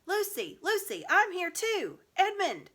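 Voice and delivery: loud, high, slow calls across the wood; shouting for Lucy. Acted. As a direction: call her name as far as it will carry. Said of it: "and so he shouted".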